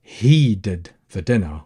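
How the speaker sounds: "he" stretched out for emphasis; slow down and lean on "he"; emphatic, drawn-out "he"; stress on he. Shown as a demonstration. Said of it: "here we're putting emphasis that".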